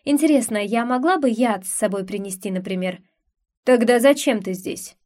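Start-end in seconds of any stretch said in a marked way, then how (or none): 3.6-5.0 lightly voiced drunk prince; a hint of tipsy prince. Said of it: "поинтересовался пьяным голосом". (лёгкий пьяный голос)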